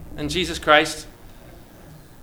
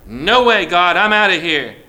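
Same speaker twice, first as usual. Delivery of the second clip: Jonah balking, incredulous and louder; indignant Jonah; 4 dB louder than usual. Acted. Jonah refusing God's command, outraged and loud. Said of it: "Because Jonah says".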